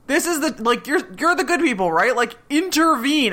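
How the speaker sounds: imitating a desperate plea; pleading. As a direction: beg them to step in.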